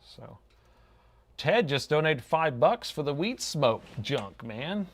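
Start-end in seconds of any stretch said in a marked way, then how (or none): 1.4-4.9 slow, laid-back stoner drawl; lazy stoner voice, higher pitch. Pretend. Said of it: "I keep talking in a weed, a stoner voice".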